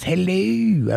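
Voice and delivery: high, posh British hello; mock British, lilting up high and falling; Mary Poppins. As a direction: put on a posh English accent. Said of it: "you have a British accent. Posh, like M-, Mary Poppins".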